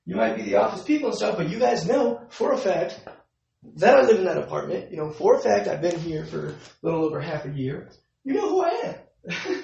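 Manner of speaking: retold anger. Tenant insisting to the office man, heated and loud. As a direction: insist hard that he knows you. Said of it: "I'm getting upset, of course".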